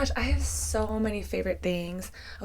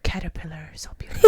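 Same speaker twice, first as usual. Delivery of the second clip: put-on toddler voice; 3 semitones lower, 9 dB louder than usual. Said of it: "He's like".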